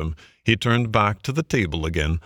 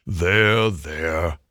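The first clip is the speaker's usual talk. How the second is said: more kindly; 2 semitones lower than usual. A narrator's reading. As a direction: comfort someone who is crying. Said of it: "went on the badger, more kindly".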